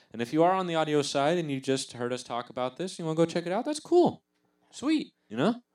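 excited. Real, not acted. Hyped outro to listeners.

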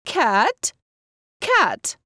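high, rising call. A narrator's reading. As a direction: call to the sleeping cat. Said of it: "Mother called".

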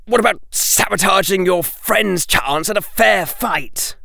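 angrily. Acted. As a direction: accuse him, indignant. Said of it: "said Draco angrily".

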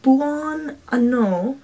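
"buon anno" stretched word by word; slow learner's Italian on "buon anno"; careful Italian pronunciation. Shown as a demonstration. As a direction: draw out "buon anno" very slowly. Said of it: "In Italian, it's".

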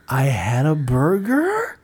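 slow, rising answer; mock uptalk, question-like reply. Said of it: "conversation with that guy".

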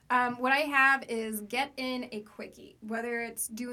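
hoarse from a cold; talking with a sick, rough voice. Real, not acted. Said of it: "Excuse my sick voice".

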